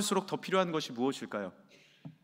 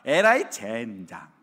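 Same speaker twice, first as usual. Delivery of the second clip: folksy scolding mother; 3 semitones higher, 7 dB louder than usual. Retold or imitated. Mother scolding her son over a stain, folksy and loud. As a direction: nag the kid, then drag out the curse. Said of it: "구수한 말로 그 아이에게 이렇게 얘기합니다".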